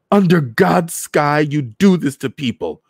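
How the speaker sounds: high, loud outraged holler; brazen holler. A narrator's reading. Woman protesting to soldiers over a dragged body, brazen holler. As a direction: cry out in brazen defiance. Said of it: "she hollered in a brazen Creole".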